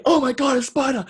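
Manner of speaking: high, loud hammed-up alarm; mock panic. Re-enacts panic at the spider.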